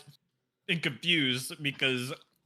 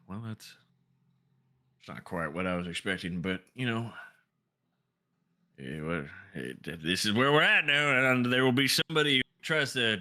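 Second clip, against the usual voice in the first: lower, resigned Silas; 3 semitones lower than usual. Acted. Silas accepting the sword with resignation. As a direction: shrug it off as the new owner. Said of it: "he goes".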